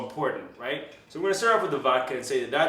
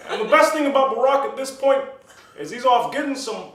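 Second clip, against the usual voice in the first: Barack Obama; 7 semitones higher, 3 dB louder than usual. Acted. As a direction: do the former president, hesitating between phrases. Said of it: "I can do a little Barack".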